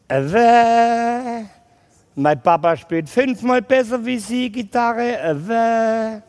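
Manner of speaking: put-on a boy boasting about his dad, lightly childish; sulky kid sassing the teacher; whiny child voice. Schoolboy Simon boasting to his teacher, lightly whiny.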